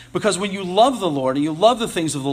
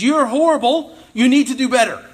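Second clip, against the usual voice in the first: mock preacher yell, raised pitch and louder; imitated pastor yelling; 7 semitones higher, 5 dB louder than usual. Moralistic pastor scolding everyone at church, mock yelling. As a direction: scold the congregation in a pretend yell. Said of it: "the pastor yells at them".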